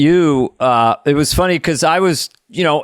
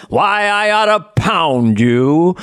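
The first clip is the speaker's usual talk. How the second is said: forties tough guy catchphrase; slower than usual. Shown as a demonstration. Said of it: "I used to do it in my stand-up".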